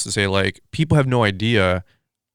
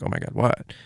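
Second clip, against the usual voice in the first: breathless whisper, alarmed; whispered oh my god what; 6 dB quieter than usual. Retold or imitated. Friend repeating his own whispered fright in the hotel room, breathless whisper. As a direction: whisper it like you're scared to hear the answer.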